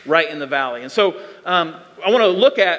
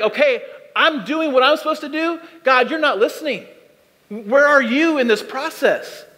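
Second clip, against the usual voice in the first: higher-pitched exasperated prayer, slowing into the question; frustrated plea; 4 semitones higher than usual. Acted. Believer asking God where he is, frustrated and pleading. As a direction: protest upward, mildly exasperated.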